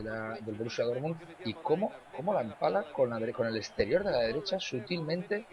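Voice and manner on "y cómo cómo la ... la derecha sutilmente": breakneck goal commentary. Real, not acted. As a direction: ride the replay up to golazo. Replay of the goal described.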